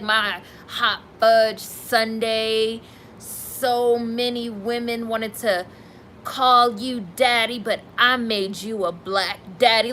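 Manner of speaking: lightly mocking, drawn-out gushing; slow, syrupy mock of a fawning partner; imitating Jody's talk. Host mocking how a woman gushes over her husband, slow imitation. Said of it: "that's how she talks".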